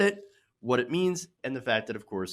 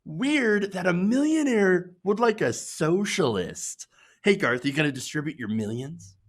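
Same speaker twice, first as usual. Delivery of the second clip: mock commenter; 3 semitones higher than usual.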